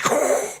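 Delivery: short rushing whoosh noise; breathy swoosh sound effect; swooping noise. Acted. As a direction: imitate her rushing past. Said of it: "like that".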